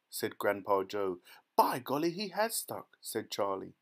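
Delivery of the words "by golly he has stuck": high, excited exclamation; astonished young lad voice; amazed boy. A narrator's reading. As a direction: marvel at the sight. Boy exclaims at what he sees.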